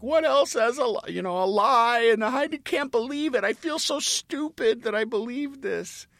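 put-on high-pitched tearful child's lament; crying. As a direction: sob it out as a betrayed kid. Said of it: "as she's crying and saying".

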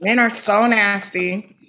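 slow, amused disgust; laughing disgust. Real, not acted. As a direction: say it through a laugh.

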